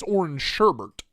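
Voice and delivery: "sherbet" with an extra R before the T; sherbet with two R's. Shown as a demonstration. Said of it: "there's two R's in that word".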